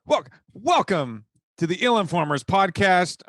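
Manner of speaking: loud, slow, grand podcast intro; announcer intro voice. Shown as a demonstration. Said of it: "Now it's your turn".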